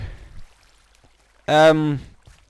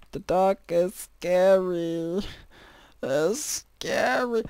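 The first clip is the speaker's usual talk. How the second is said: slow, eerie ghost-story voice; spooky voice; 3 semitones higher, 6 dB quieter, much slower than usual. Pretend. To himself about the dark, slow spooky voice.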